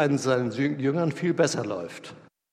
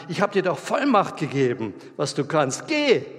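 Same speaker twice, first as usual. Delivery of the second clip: God snapping; 2 semitones higher, 3 dB louder than usual. Acted. God snaps at reluctant Mose, Geh yelled. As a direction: snap the order, Geh shouted. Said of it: "Gott faucht ihn an".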